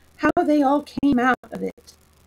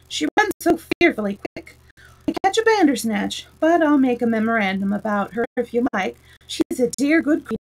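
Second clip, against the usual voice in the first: lightly voiced fussy king. King's lines read raised.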